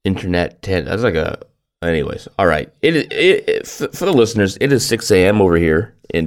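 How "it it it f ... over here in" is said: groggy just-woke-up voice; sleepy early morning voice. Real, not acted. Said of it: "That's why you have that weird voice".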